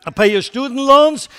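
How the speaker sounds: promising politician. Retold or imitated. Candidate promising voters free loans, loud and eager. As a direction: win the crowd with a giveaway. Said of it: "somebody comes to the scene and says".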